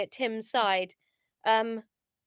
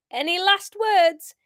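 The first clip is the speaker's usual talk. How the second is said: higher attempted Geordie accent; leader's Geordie voice; 5 semitones higher, 5 dB louder, slower than usual. Leader on tape to Paul, attempted Geordie. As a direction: taunt in an amateur Geordie voice. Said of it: "came the leader's voice".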